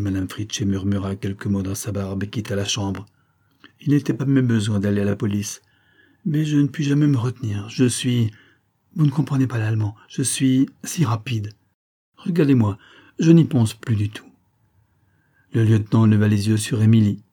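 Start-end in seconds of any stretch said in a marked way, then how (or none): 6.2-14.3 lightly voiced chatty girl, higher; lively young woman. Emilie to the lieutenant, chattering lightly in a carefree girl's voice. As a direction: rattle on, carefree and impulsive.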